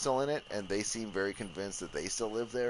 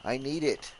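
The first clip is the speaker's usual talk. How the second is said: loud, higher yelling at an enemy; angry yelling; 5 semitones higher, 5 dB louder than usual. Real, not acted. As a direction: shout them off your stuff.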